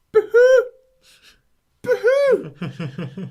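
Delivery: hammed-up imitation of a grown man sobbing; mock sobbing. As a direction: bawl "Boo-hoo" high and loud, laughing through it. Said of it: "sobbing and breaking down".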